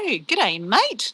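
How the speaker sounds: broad Australian greeting; Australian accent. Shown as a demonstration. Streamer showing viewers where she's from, Australian accent. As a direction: lay on an Australian "mate". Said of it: "give you a better angle at my accent".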